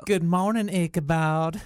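put-on old Southern woman. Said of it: "Why would you do it as an old Southern white woman?".

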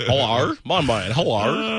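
mock Australian hello; Australian accent. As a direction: exaggerate an Australian greeting. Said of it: "this accent where they talk like this".

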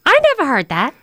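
emphatic Brooklyn mother in denial; Brooklyn accent. Retold or imitated. Mom denies hearing the teasing, Brooklyn accent. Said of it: "So I guess the Brooklyn accent".

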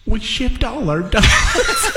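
words ringing in an empty hall; echoey reverb. Acted. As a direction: echo like an empty factory. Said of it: "It sounds pretty empty in here".

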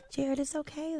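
very soft, hushed reassurance; not getting loud. Real, not acted. Co-host soothing an annoyed Jared, hushed and soft. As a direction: drop right down and soothe him softly. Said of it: "let me not get loud".

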